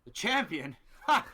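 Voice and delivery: high, scoffing taunt; mock a rival's title in a theatrical promo; wrestling promo. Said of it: "Promo back in".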